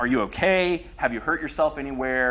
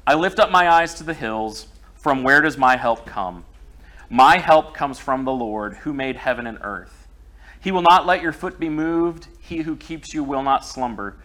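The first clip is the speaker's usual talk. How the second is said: measured reading of the Psalm; a lightly heightened reading voice; scripture reading. Acted. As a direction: read it out to the church, steady and solemn. Reads Psalm aloud to congregation.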